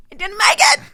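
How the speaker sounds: high, loud exaggerated wail of defeat; mock despairing wail. Retelling to a podcast host her fake-out despair, loud mock wail. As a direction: wail it like the world just ended.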